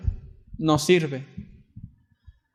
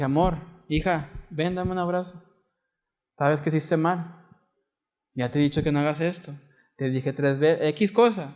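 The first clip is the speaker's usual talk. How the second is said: softer, gentle fatherly voice; tender correction; 6 dB quieter than usual. Retold or imitated. Father comforts his daughter after disciplining her, softly. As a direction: hold her close while you scold. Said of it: "pero es en amor".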